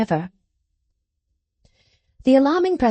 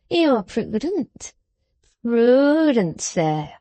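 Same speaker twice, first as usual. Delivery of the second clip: put-on old grandfather exclaiming; 2 semitones higher, much slower than usual. Old man rubbing his legs, crying out praise to the trooper, slowly. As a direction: draw the words out admiringly as an old man. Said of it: "cried Grandfather Smallweed, rubbing his legs".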